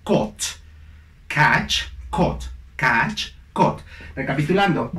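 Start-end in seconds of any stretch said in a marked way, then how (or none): 0.1-3.8 "caught" with the same "aw" as the others; catch, caught. Shown as a demonstration. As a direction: drill "catch" against "caught". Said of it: "el sonido es exactamente el mismo".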